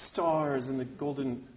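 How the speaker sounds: slow, dry, no gesture; deadpan offhand; flat deadpan. Shown as a demonstration. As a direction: say it slow and lifeless. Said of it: "it wouldn't make sense".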